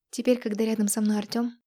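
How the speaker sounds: plain reading voice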